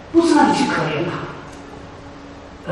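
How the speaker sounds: slow, hushed, stressing 不 in 不是让你去可怜他; 不是让你去可怜他 said slowly and hushed with 不 stressed; hushed emphasis. Shown as a demonstration. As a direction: lean in and drop it to a near whisper, drawing out 不. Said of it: "你不是让你去可怜他".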